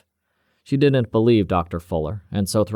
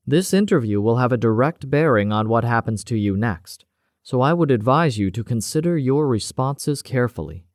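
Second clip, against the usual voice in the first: measured, authoritative security officer; cool interrogator; 4 semitones higher than usual. Acted. Cavendish warns the doctor of prison, cool and measured.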